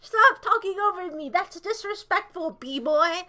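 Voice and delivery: loud mock-angry yelling; domineering. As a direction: shout him down, bossy. Stop reading my chat.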